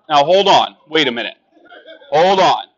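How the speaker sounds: loud. Real, not acted. Calming the laughing crowd.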